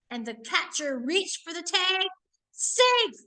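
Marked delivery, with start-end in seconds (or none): 2.5-3.1 high, loud call of safe; umpire's call. Acted. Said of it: "called the umpire".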